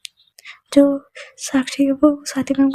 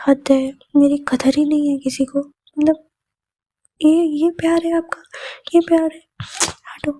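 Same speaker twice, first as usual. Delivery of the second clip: melodramatic hurt; 2 semitones higher than usual. Acted. Student guilt-trips her teacher with mock heartbreak. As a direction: play up the hurt to win a hug. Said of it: "ये ना melodrama बंद करो".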